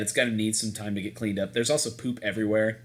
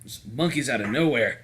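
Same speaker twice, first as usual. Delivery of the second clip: put-on gruff Southern accent; 2 semitones higher than usual. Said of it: "I'm giving him a gruff Southern accent".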